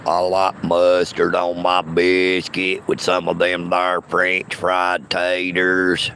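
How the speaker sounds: a mock deep bass voice to show off. Shown as a demonstration. Mock deep voice offered to a chat that mocks his accent. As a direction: drop the voice way down low and rumble it. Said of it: "I might could talk like this".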